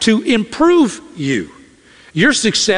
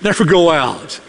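incredulous echo. Retold or imitated. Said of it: "What do we think?".

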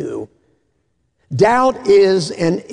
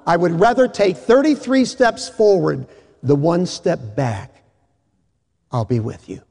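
calm mentor. Acted. Old master calming the novice.

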